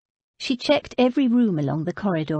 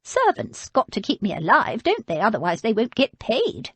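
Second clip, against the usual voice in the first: put-on higher, querulous old woman's voice; old lady; 4 semitones higher than usual. Old lady refusing food, voiced higher. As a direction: play her as a frail but stubborn old lady.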